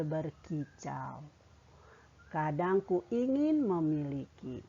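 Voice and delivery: put-on slow, expressive recital of a children's poem; teacher's slow poetry demo; expressive poem reading. Shown as a demonstration. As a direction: read it like a model for the class, unhurried.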